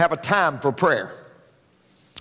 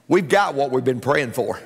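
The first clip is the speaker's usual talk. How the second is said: laughing punchline; 5 semitones lower than usual. Acted. Joke punchline, laugh heard.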